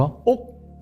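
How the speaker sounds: sharp high startled "억?"; a grandmother caught off guard, a short gasp. Retold or imitated. Grandmother recognizing a dead girl's habit, startled gasp. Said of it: "하고 놀래더래요".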